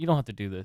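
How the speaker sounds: put-on pleading, begging tone. Retelling a wrestling scene, imitating Sammy pleading with Roman. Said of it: "pleading with Roman".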